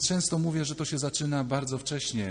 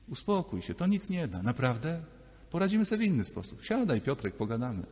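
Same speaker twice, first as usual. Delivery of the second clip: gentle calming. Acted. Adult self calms little Piotrek, gently reassuring. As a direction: talk a restless child down, mildly.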